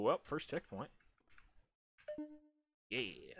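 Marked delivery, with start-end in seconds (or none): 2.9-3.3 breathy whispered yeah. Real, not acted. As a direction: say it under your breath. Unvoiced, quiet response.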